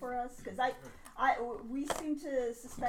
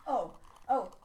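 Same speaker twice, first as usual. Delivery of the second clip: put-on Kiwi accent; 6 dB louder than usual. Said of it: "he's got some sort of Kiwi accent".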